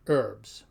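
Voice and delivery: herbs ending in a voiced "bz". Shown as a demonstration. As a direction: say herbs as "urbz", no H. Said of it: "sounds more like a B Z".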